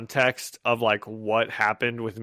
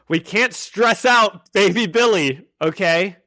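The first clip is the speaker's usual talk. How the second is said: high, louder sing-song voice for the cats; 6 semitones higher, 5 dB louder than usual. Real, not acted. Talking to the cats to protect baby Billy, higher cooing pet voice. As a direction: coo at the cats to keep them calm.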